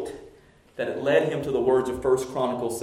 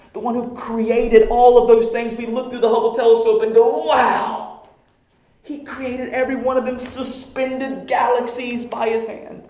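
full-force preaching; 11 semitones higher, 8 dB louder than usual. Acted. Pastor thundering at the congregation about pride, full-force preaching. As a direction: preach it to the rafters.

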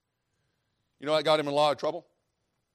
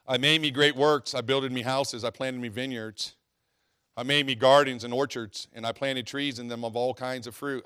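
scripture reading; 4 dB louder than usual. Acted. Preacher reads Ecclesiastes to the church, declaiming. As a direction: read it out with weight.

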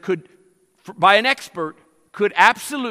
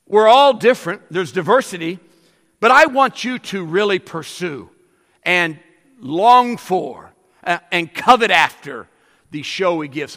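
mock Paul urging; 6 dB louder than usual. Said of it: "the Apostle Paul would say".

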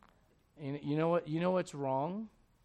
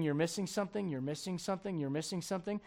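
gentle Spirit's voice; 4 dB quieter than usual. Acted. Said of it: "the Spirit of God is saying".

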